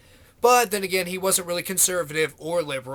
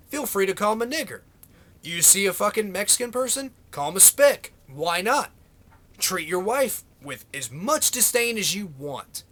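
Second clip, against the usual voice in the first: sarcastic; 2 semitones higher than usual. Pretend. Sarcastic mock permission to bigots.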